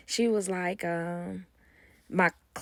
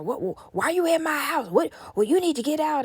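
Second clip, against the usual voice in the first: higher, louder, lightly acted outrage; mock anger; 8 semitones higher, 4 dB louder than usual. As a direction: push them out of your house. Boyfriend confronting the friend, retold.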